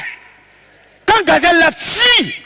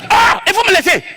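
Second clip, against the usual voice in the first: mock shout; 5 semitones higher than usual. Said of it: "Il fait comme".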